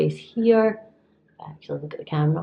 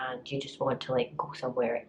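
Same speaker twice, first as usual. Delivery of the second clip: whisper; 3 semitones lower, 8 dB quieter than usual. Real, not acted. Tired, hungry, trailing off.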